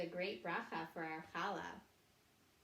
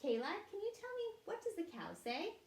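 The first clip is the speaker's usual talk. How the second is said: put-on reading to a toddler; 2 semitones higher, 3 dB louder, slower than usual. Animal sounds game for children.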